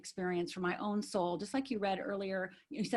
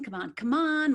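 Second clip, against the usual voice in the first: raised, urgent mimicked call; hurrying dad; 4 semitones higher, 5 dB louder than usual. Dad walks in for brunch, hurrying. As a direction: imitate a dad chivvying everyone along.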